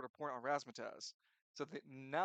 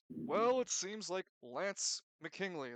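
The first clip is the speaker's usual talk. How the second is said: drawn-out, higher announcer voice; fight announcer; 4 semitones higher, 3 dB louder, much slower than usual. Acted. Announcer addresses the audience after the fight, showy announcer call. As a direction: stretch it out like a ring announcer. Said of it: "The announcer".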